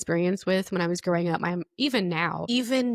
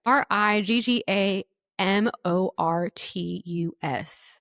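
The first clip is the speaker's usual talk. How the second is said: careful slow spelling; slower than usual. Shown as a demonstration. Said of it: "try it again".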